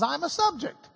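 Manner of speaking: a hint of a word speaking up; talking word sign. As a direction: let the sign introduce itself. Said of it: "it just wears a sign that says".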